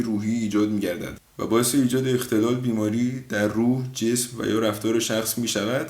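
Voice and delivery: a hint of a formal lecture read; lightly formal mock lecture; mock textbook definition. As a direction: recite it like a dictionary entry. Mock dictionary definition of stress.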